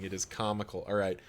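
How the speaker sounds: ordinary talk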